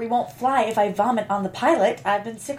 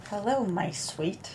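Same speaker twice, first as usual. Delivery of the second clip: intense; 5 semitones lower, 8 dB quieter, slower than usual. Acted. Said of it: "she addresses him with intensity".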